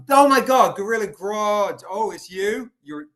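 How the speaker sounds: high, loud delighted recognition; surprised greeting. Real, not acted. Seller suddenly recognising a regular buyer, surprised greeting. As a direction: burst out on recognising who it is. Spotting a known viewer in chat.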